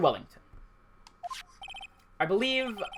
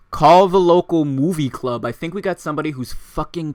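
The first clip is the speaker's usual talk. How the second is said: mock announcement; 9 dB louder than usual. Real, not acted. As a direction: boom it like a joke announcement. Mocking joke at the witness.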